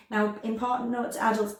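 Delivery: ordinary talk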